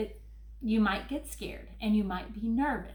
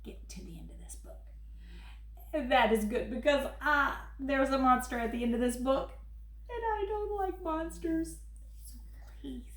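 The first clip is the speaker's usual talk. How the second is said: furry monster Grover, fretful and pleading; 5 semitones higher, 3 dB louder than usual. Acted. Grover reading his book to the kids, worried and pleading. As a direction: play lovable Grover begging the child not to turn pages.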